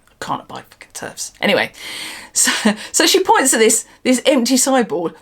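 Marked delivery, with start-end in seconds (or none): 0.1-1.3 much softer, voiceless aside, fast; under her breath. Real, not acted. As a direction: mutter it to yourself, barely voiced. Muttering after apologising for loudness.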